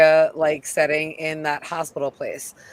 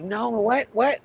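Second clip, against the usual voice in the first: startled; 6 semitones higher, slower than usual. Retold or imitated. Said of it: "he's kind of startled".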